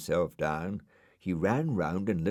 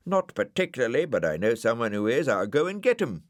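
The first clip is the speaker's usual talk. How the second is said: Brian voice; 4 semitones higher, 5 dB louder, faster than usual. Acted. Brian character voice.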